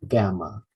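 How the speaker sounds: "Gamma" as GAM-ma, falling away; first-syllable stress. Shown as a demonstration. Teacher showing syllable stress, GAM-ma for "Gamma". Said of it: "First syllable is stressed".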